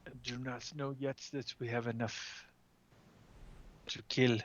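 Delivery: usual speaking voice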